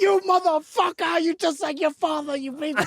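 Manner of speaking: high squeaky mocking mom voice. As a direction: screech it like the mom mocking her crying kid. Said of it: "and she's like".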